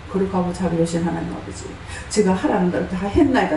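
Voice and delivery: low, subdued mock prayer. 기도하는 말투를 흉내 냄. (낮고 차분한 기도 말투 흉내)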